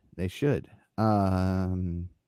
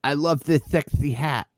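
lightly mocking impression of a wrestler; slightly higher mock wrestler quote; imitating a wrestler; 5 semitones higher than usual. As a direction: parrot his line in mild mockery. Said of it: "he started on the mic".

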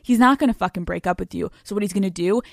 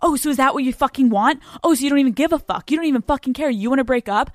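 louder and higher, a hammed-up huffy boyfriend; mock angry boyfriend; 4 semitones higher, 4 dB louder, faster than usual. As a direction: play the boyfriend getting worked up. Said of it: "he's gonna be like".

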